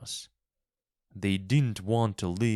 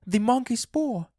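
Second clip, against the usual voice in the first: much higher, urgent cry; excited cry; 4 dB louder than usual. A narrator's reading. Wife wakes husband crying out about the paw, shrill high. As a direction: blurt it out in wild hope. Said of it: "she cried".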